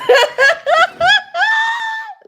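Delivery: high shrieking laugh at the chat; loud burst of laughter. Real, not acted. Reading chat, bursting into loud laughter. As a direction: cackle loudly.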